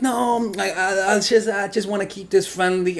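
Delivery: high-pitched, stammering brush-off; mock female voice, awkward and high; imitated hesitant woman. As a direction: put on a woman letting someone down. Imitates woman turning him down.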